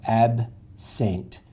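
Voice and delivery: absent said slowly as ab and sent; teacher modelling syllables; split into syllables. Shown as a demonstration. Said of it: "divide off ab".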